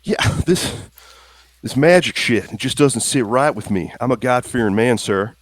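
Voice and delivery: put-on a God-fearing country boy spooked by magic; uneasy Slim. Slim explains his unease.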